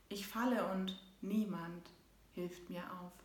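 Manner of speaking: measured, rhythmic poem recital; poem reading. Acted. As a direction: read it like a heartfelt poem. Reads her poem aloud.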